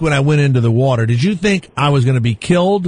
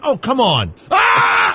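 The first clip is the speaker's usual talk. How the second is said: mock yell; 5 semitones higher, much slower than usual. Shown as a demonstration. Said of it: "Look in the camera and yell".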